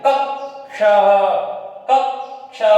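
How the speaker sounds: कक्षा said slowly with both क sounds clear; teacher models कक्षा carefully; careful pronunciation. Shown as a demonstration. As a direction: split कक्षा as क्-क्षा, each part crisp. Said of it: "कक्षा नहीं".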